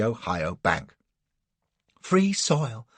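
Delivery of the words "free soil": sobbing. A narrator's reading. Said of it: "sobs Cassie".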